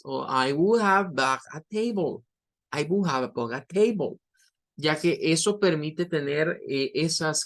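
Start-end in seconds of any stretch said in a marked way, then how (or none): 0.3-2.2 would stressed, weak forms reduced, falling end; rhythmic weak forms. Shown as a demonstration. Teacher demonstrating weak forms to class. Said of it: "no es lo mismo decir esto con ritmo". 2.7-4.2 table stressed, would have bought reduced; rhythmic weak forms. Shown as a demonstration. Teacher repeating the rhythm demo. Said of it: "no es lo mismo decir esto con ritmo".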